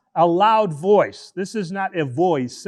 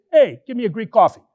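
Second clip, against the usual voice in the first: calling out; 2 semitones higher, 3 dB louder, much faster than usual. Retold or imitated. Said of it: "I cry out and I say".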